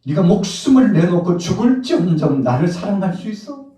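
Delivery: high, loud, urgent question; impassioned challenge. Acted. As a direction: demand an answer at full preaching force. Voices Jesus challenging Peter. (높고 크게 다그치듯 묻는 설교)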